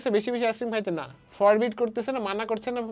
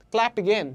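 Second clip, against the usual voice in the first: "clap" stronger than "again"; stress on CLAP; 2 semitones higher, much slower than usual. Shown as a demonstration. Teacher asking which word is stressed, weight on "clap". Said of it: "ক্ল্যাপকে stress করা হচ্ছে".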